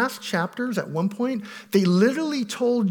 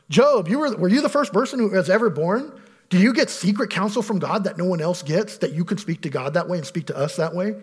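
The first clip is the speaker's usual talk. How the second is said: sarcasm. Retold or imitated. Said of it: "We see sarcasm here".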